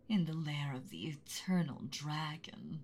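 "eternal dragon" in a hushed, menacing whisper; ominous dragon voice. Acted. Dragon still fooling the boy, menacing whisper. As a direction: build dread before the reveal. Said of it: "mean, angry dragon voice".

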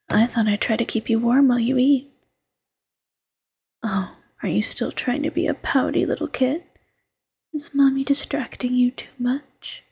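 intimate ASMR whisper, close to the mic. Acted. Fox girlfriend coaxing her tired partner to eat, whispering. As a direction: coax him gently in a hush.

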